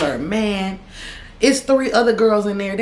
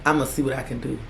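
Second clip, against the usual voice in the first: grandma voice; 6 semitones lower, 6 dB quieter, faster than usual. Retold or imitated. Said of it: "So she was like".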